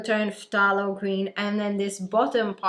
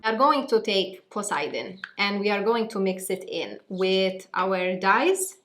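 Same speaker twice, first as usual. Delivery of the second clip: Maltese accent. Shown as a demonstration. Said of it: "That is the accent that you're gonna be greeted with".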